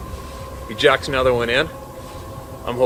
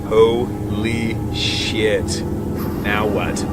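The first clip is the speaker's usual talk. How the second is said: stunned inner thought; 2 semitones lower, much slower than usual. Retold or imitated. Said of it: "staring there frozen thinking".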